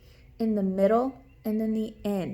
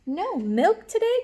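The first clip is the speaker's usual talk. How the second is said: higher, louder, slow disbelieving cry; shocked cry; 8 semitones higher, 6 dB louder, slower than usual. Acted. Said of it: "cried Farmer Brown".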